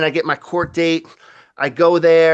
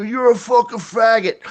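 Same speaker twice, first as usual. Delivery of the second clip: mock drunk shout; 5 semitones higher than usual. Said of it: "He go".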